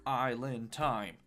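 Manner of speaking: drawn-out mock vacation catchphrase; playful aside. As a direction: stretch it out like a holiday slogan. Joking echo of a beach song.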